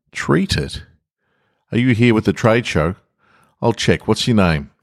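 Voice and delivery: guard baffled by the strange visitor; suspicious guard. Acted. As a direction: question him like a baffled guard.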